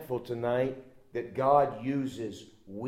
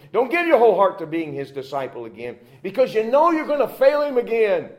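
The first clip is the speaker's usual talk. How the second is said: louder, rising, jeering accusations; devil's accusation; 4 semitones higher, 5 dB louder than usual. Acted. The devil taunting the failing believer, loud and jeering. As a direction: hammer the listener with every fault.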